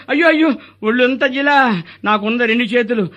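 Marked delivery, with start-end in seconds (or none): 0.1-1.5 higher, wailing complaint about the itch; itchy wail. Acted. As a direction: squirm and whine at the itching. Itching after the injection. (దురదతో మూలుగుతూ)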